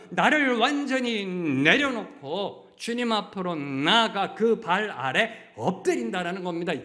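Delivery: impassioned pulpit climax; fervent preaching. Real, not acted. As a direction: drive the sermon to its peak. Preaching at full force.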